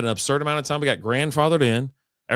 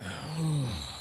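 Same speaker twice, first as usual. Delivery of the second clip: long, soft, deflated sigh; heavy sigh of disappointment; exasperated sigh; 3 semitones higher, 10 dB quieter than usual. Retold or imitated. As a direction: let out a resigned breath. Reacts to storm forecast.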